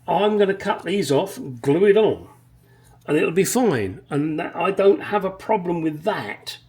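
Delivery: venting about the badly drilled holes; annoyed rant. Real, not acted. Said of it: "You can tell I'm a little bit pissed".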